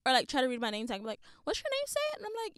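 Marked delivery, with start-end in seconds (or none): 1.4-2.0 mock nosy customer. Customer reading her name tag.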